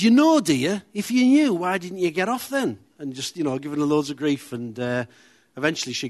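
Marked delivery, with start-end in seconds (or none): 0.0-2.8 put-on raised, loud, sneering old-man voice; mocking old man. Old man on the bus mocks a woman who missed her stop, loud and sneering. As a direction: jeer at her like a cocky pensioner.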